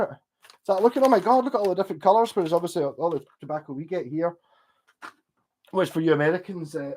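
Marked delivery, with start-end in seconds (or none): 0.8-2.3 higher-pitched, lightly acted wonder; mock amazement. Tourist looking at colourful tobacco packets, mock amazement.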